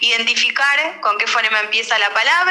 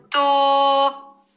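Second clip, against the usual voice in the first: long horn toot; 5 semitones higher than usual. Shown as a demonstration. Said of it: "uno es largo, uno es corto".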